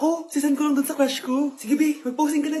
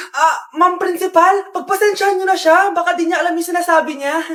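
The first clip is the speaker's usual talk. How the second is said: pleading loudly; 4 dB louder than usual. Acted.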